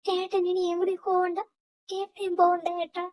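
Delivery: mildly tearful, clinging plea; acted crying entreaty; tearful pleading. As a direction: beg a brother to stay, near tears. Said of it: "കരയാതെ".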